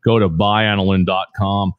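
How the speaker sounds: deep smooth ad-read voice; radio announcer voice. Acted. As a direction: sell it like a late-night radio spot. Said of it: "I have a great radio voice".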